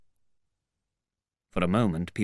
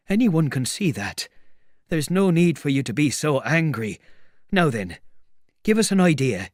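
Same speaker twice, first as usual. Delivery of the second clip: high, insistent tramp, getting louder; exasperated tramp; 7 semitones higher, 5 dB louder than usual. Acted. Tramp asking where the invisible man hides, exasperated. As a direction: press for an answer, high and impatient.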